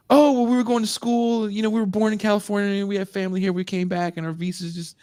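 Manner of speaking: high, hurried fake American excuse; a Glasgow rapper covering his story in fake American; bad American accent. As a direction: ham up a Scot's clumsy American accent. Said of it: "the worst American accents ever".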